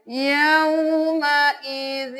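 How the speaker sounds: slow recited یومئذ, drawn out; Quran recitation. Shown as a demonstration. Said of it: "یہاں پہ دیکھ لیجئے". (آہستہ تلاوت)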